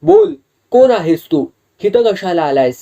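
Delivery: loud, high commanding shout; exorcist's shout. A narrator's reading. Exorcist shouting at the possessed man to speak. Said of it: "तो पुन्हा ओरडला".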